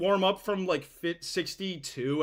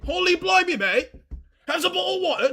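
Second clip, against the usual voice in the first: much higher, louder mock British accent; 12 semitones higher, 5 dB louder than usual. Streamer joking to chat in a hammed-up British accent. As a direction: ham up a silly British accent. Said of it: "I'm sick to British accent".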